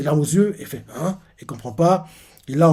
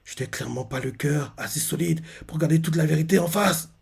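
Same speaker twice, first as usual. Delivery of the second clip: inner thought; 7 dB quieter than usual. Retold or imitated. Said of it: "elle se dit dans sa tête".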